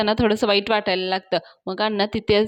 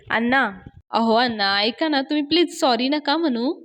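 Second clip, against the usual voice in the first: higher-pitched, lightly acted plea; gentle persuading; 5 semitones higher than usual. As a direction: coax the elder out of apologising. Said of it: "पुढे अवनी त्यांना समजावते". (समजावणीचा हलका, उंच सूर)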